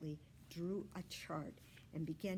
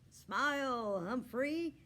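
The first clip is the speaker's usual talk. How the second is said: higher, louder photo call; cheerful call; 7 semitones higher, 9 dB louder, slower than usual. Acted. Aldo photographing the hamster, cheerful call. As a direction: coax a smile for the camera.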